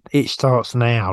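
low, slow, portentous delivery; ominous pronouncement. Retold or imitated. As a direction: say it like a grim drill sergeant. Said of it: "he goes".

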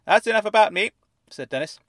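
high, fuzzy voice like it's underwater; fuzzy fish tank voice. A narrator's reading. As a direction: speak as if from inside a fish tank. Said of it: "as though he were speaking from the inside of a fish tank".

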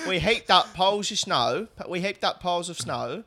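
a light South London woman's voice; second attempt at a South London accent. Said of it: "you do the voice for her".

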